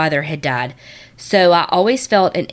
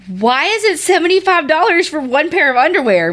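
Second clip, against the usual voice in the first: high, incredulous voice of the insurance company; a higher, put-on voice of a baffled insurer; mock insurance clerk; 10 semitones higher than usual. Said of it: "they're like".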